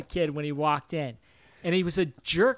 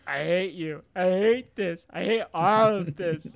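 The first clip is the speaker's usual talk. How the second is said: mock angry kid; 3 semitones higher, 4 dB louder than usual. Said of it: "He's like".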